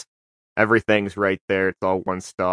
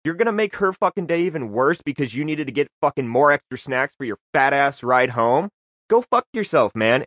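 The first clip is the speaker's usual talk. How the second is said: retold angry confrontation; 3 semitones higher than usual. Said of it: "I was like".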